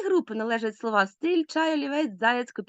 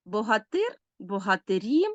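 "богатир" on ТИР, then "богатирі" on the final І; stress moves to the ending. Shown as a demonstration. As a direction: shift the stress to the last vowel of "богатирі". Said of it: "наголос переходить на закінчення".

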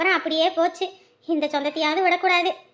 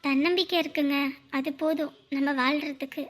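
soft, tender and sincere; gentle reassurance; 3 semitones lower, 6 dB quieter than usual. Acted. Woman telling her suitor confidence is enough, gently reassuring. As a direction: reassure him quietly.

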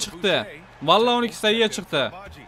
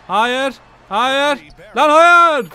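higher, much louder cry of no; dismayed shout; 4 semitones higher, 7 dB louder, much slower than usual. Real, not acted. Gamer watching the rival's last-second three, anguished shout. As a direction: yell it as the shot drops in. Opponent scores late three.

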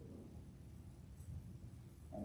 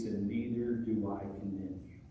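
softer and gentle, full of mercy; compassionate; 3 semitones lower, 6 dB quieter than usual. Retold or imitated. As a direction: forgive her tenderly. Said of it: "The voice of the Lord is compassionate".

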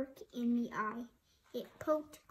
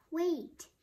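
high, loud plea to stop; calling yell; 5 semitones higher, 5 dB louder than usual. A narrator's reading. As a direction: call out after someone walking away. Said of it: "he yelled".

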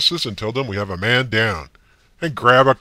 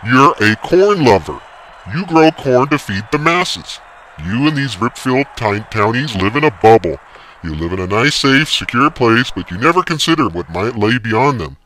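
ranting yell; 10 dB louder than usual. A narrator's reading. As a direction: lecture him with scorn. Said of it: "yelled the umpire".

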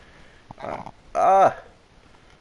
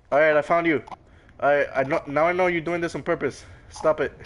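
loud annoyed scolding; 3 semitones higher, 5 dB louder than usual. Real, not acted. Gamer to friend who annoys him on purpose, louder. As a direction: tell your friend to knock it off.

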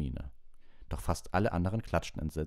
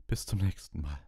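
weary whisper; faint. A narrator's reading. Trelawney to the class, faintly whispering goodbye. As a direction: breathe it out tired and faint. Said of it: "sagte Professor Trelawney matt".

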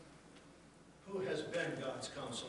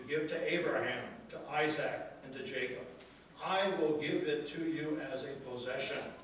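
loud, weighty proclamation; full-force preaching; 3 dB louder than usual. Acted. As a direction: declare each promise like thunder. Proclaims God's promises.

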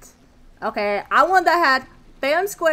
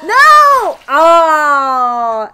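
shout of dismay; 2 semitones higher, 11 dB louder than usual. Real, not acted. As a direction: yell it as you fall. Character dies in acid.

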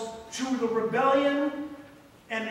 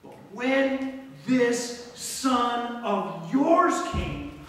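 very slow, louder, spitting "this son of yours"; contempt; 4 semitones higher, 5 dB louder, much slower than usual. Acted. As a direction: sneer at the brother. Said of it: "You see the difference?".

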